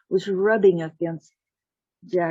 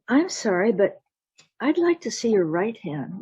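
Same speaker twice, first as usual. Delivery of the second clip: raised, courteous request; polite insistence; 3 semitones higher than usual. Acted. Jack asks the miller's wife again, politely insistent. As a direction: press the point while staying polite.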